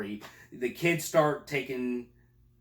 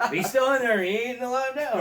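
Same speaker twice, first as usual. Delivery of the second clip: high, loud movie-quote voice; hammed-up film impression; mock tough-guy punchline; 11 semitones higher, 5 dB louder than usual. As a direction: call out the punchline, pitched way up. Acting Major Payne's punchline after gunfire.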